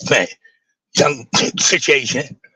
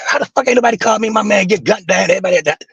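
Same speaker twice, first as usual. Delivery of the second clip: retold outrage; 5 semitones higher, faster than usual. Outrage nobody called him.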